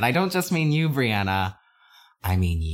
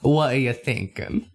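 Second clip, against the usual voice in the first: attempted Southern accent. Asking the co-host for their idea, failed Southern accent. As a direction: have a shaky go at a Southern accent. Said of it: "Wow, you can't do it all, huh?".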